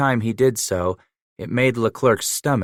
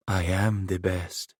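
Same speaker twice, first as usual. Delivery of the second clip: quiet menace; 5 dB quieter than usual. Acted. Leans close, flat claim.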